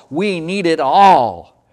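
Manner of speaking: slowed right down, leaning on all; insistent slow plea; slow repeat. Retold or imitated. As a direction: drag out the repeat, weighing each word.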